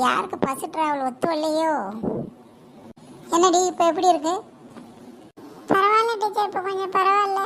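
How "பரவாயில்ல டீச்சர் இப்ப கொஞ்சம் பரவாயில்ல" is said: lightly voiced girl, raised pitch; recovering schoolgirl. Sick girl says she is better, raised girlish voice. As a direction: reassure teacher in a small girl's voice.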